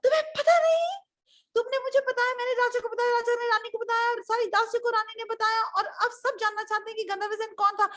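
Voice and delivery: high, frantic scolding tirade; outraged minister. Acted. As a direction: berate and threaten the general. Minister scolds and warns general. (भड़के मंत्री की तेज़ डाँट)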